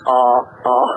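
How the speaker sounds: imitating a slack-jawed stammer; repeated stunned "uh", mouth hanging open; dumbstruck. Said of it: "with his jaw hanging open".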